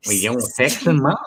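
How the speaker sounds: lightly attempted Texan accent; Texas drawl. Shown as a demonstration. Asked for a country twang, says he's no good at accents, tries a Texas drawl. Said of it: "Can you do a Texas drawl?".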